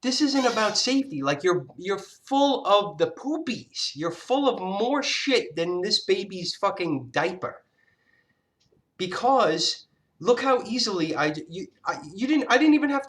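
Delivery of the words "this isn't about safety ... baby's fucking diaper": retold retort. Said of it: "but I said".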